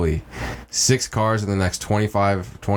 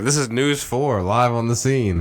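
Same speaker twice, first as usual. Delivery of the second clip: mock TV reporter voice, a bit higher and slowed; news reporter; 3 semitones higher, slower than usual. Mocking a closed drive-thru as a news reporter. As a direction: announce it like a live field reporter. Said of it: "That's when you gotta be like".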